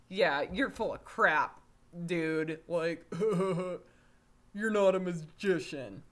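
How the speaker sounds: loud, laughing disbelief; laughing scoff. Retold or imitated. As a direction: scoff at him through laughter. Dad scoffs at wizard.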